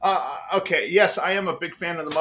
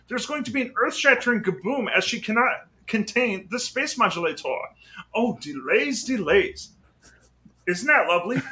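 Marvin the Martian; 2 semitones higher than usual. Retold or imitated. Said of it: "then there's Marvin the Martian".

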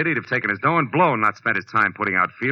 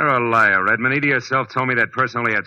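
angry accusation; 3 semitones higher, 4 dB louder than usual. Acted. Detective accuses suspect.

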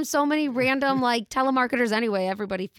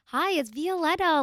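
voicemail voice; 6 semitones higher than usual. Retold or imitated. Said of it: "without my".

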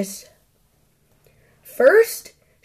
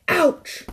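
ouch; 7 semitones higher, 4 dB quieter than usual. A narrator's reading. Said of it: "said Goldilocks".

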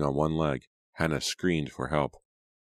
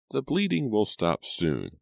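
reassuring; 6 semitones higher, slower than usual. Acted. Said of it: "Missus Mackenzie assured Hannah".

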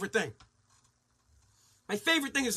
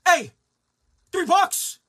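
mock haggler at the till; 4 semitones higher, 5 dB louder than usual.

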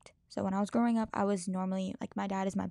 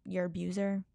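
normal talking voice

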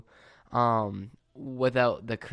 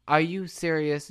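incredulous, raised and louder; exasperated disbelief; 4 semitones higher, 4 dB louder than usual. Retold or imitated. Telling off the stranger who made her stop, exasperated. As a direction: lean into the disbelief, like he's unreal.

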